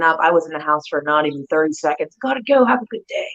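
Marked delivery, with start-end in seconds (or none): 2.2-3.3 high, polite getaway; acted-out quick exit line; retold hasty goodbye. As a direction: excuse yourself in a raised sing-out voice. Acting out her hasty exit.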